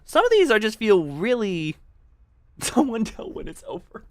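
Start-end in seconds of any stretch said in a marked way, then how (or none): 2.2-4.1 laughing. Real, not acted.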